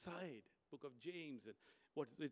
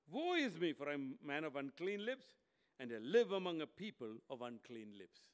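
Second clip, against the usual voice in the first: Isaiah's lament; 6 dB louder than usual. Acted. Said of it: "Isaiah says this".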